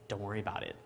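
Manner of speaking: low, soft mock-cool reply; trying to be smooth. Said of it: "trying to be all smooth".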